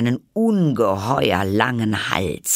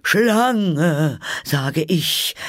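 high, loud bird voice; insistent pigeon; 8 semitones higher, 4 dB louder, much slower than usual. A narrator's reading. Pigeon repeats its accusation to Alice, insistent. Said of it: "aber mit gedämpfter Stimme".

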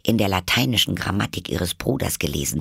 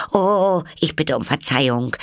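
high, startled "Oh", then hurried apology; 9 semitones higher, 4 dB louder than usual. A narrator's reading. Alice fears she has hurt the mouse, startled apology. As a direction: blurt out a higher-pitched apology. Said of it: "sagte Alice schnell, erschrocken".

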